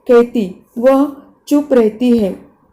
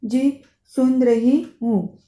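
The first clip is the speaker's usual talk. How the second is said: holding back tears; slower than usual. Acted. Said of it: "मुश्किल से अपनी रुलाई रोकते हुए".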